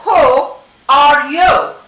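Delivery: slow, loud, separated words; growling challenge. A narrator's reading. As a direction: demand it as the Chihuahua gang leader. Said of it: "growled Don Diego".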